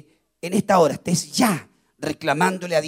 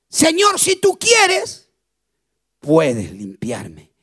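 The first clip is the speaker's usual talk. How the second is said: súplica humilde del leproso; 5 semitones lower, 4 dB louder, much slower than usual. Acted. Leper humbly begging Jesus.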